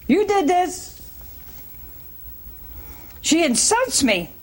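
high, accusing complaint; wife blaming husband in a sharp voice. Retold or imitated. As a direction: throw the blame at him. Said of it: "She said".

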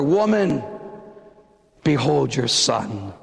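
gently entrust her; tender. Acted. Jesus to his mother Mary, tender and low.

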